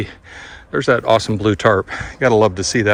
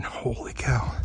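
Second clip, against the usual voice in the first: whispering; 11 dB quieter, slower than usual. Real, not acted. Awed at the barn.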